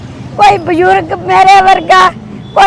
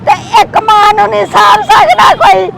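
earnest blessing prayer, steady chant-like flow; heartfelt prayer. Real, not acted. (ਅਰਦਾਸ ਕਰਦੀ ਆਵਾਜ਼)

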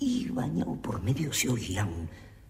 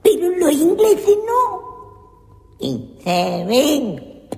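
voz de personaje agudo; 13 dB louder, much slower than usual. Acted. Personaje gritón y exagerado.

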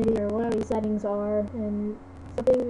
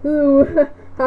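excited hi; 4 semitones higher, 10 dB louder than usual. Real, not acted. Greeting character excitedly.

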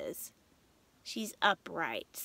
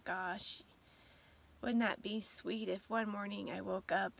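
wistful longing. Real, not acted. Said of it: "that's why I got so emotional".

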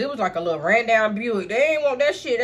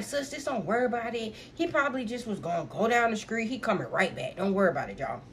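soothing friend; 5 dB quieter than usual. Retold or imitated. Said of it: "This what Copycat was saying".

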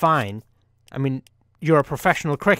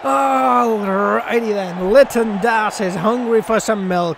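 joke delivery; 3 semitones higher, slower than usual. Acted. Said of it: "Shitty jokes all day".

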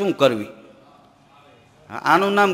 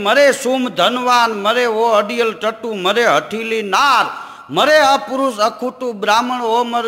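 slow, declaiming a folk couplet; recited verse; 2 semitones higher, slower than usual. Acted. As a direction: chant each line with weight. (ધીમે, લયમાં દોહો ગાવો)

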